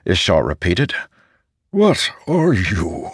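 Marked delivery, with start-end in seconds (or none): 1.7-3.1 slow, high, wondering question; awed question. Acted. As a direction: ask it slowly in disbelief. Ishar asks in awe.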